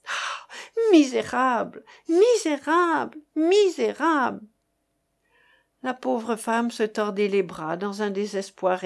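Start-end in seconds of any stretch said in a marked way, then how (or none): 0.1-4.4 anguished angry outcry; furious cry. Acted. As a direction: hurl the insult in despair. Woman cries out at blackmailer.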